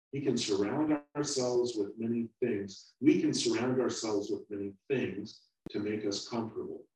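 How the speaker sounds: calm, earnest moral lesson; sermon. Real, not acted. Preacher drawing the moral for the congregation, sincere. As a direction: bring the story home to the listeners.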